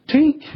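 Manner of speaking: short high "tink"; one little high imitated drip; imitated tear drop. Preacher mimicking another tear on the pages, short high tink. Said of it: "I heard something go".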